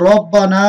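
full, heavy r in রব্বানা. Shown as a demonstration. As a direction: say রব্বানা with a thick r and drawn-out last vowel. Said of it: "মোটা হচ্ছে". (রব্বানা-র র মোটা করে)

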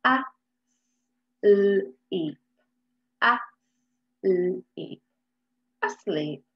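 "asleep" stretched out sound by sound; slow phonics "asleep". Shown as a demonstration. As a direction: draw out "asleep" for beginners. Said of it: "So we've got".

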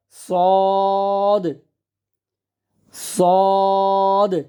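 সদ with long "aw" and bounced final "d"; heavy rounded সদ. Shown as a demonstration. Teacher modelling for students, সদ full-mouthed and stretched. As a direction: round and thicken সদ, holding the vowel on one note. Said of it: "মোটা হরফ".

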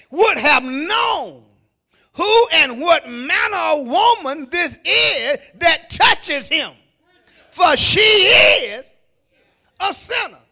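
slow and deliberate, rising to a shouted accusation; scornful Pharisee building to a shout. Acted. Preacher voicing the Pharisee's contempt to the congregation, building to a shout.

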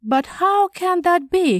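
high-pitched disbelief; amazed cry. A narrator's reading. Shocked man to his calm companion, amazed cry. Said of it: "he cried, amazed at my calm".

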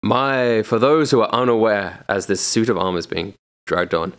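showy auction host announcing the final lot; auctioneer. Acted. GM as auctioneer presenting the armor to the bidders, showy. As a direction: sell the lot with a host's flourish.

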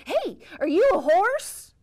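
loud high call to a stranger. Acted. Cowboy hailing a stranger, loud and high. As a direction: hail him across the field.

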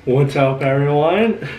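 loud, laughing hello to viewers; big cheerful hi with a laugh; excited greeting. Real, not acted.

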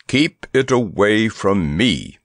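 slow, cross warning from the elephant. A narrator's reading. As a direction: warn him off crossly, slowly. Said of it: "he warned crossly".

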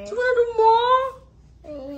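high, drawn-out playful astonishment; mock surprise. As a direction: act amazed for the child. Mother mock-surprised at child.

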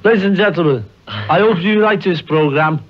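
a singer's voice. Shown as a demonstration. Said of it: "Speaking your Paul McCartney voice".

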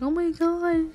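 high, slow overwhelmed gasps; overwhelmed gushing. Retold or imitated. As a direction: sound moved to tears. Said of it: "I'm just like".

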